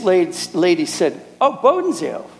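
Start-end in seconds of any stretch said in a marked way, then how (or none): 1.4-2.3 much higher, lit-up exclamation; delighted recognition. Retold or imitated. Preacher imitates a landlady won over by the name, delighted. Landlady brightens, lets girls come.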